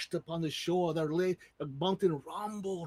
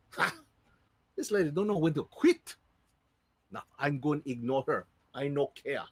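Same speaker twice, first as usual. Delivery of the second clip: scoffing. Acted. Older sister scoffs at Pele.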